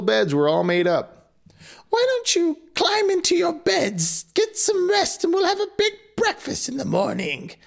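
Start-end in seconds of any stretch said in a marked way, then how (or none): 1.9-7.5 very high, sweet crone; witch voice. Acted. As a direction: tuck them in with false kindness. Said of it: "the woman said".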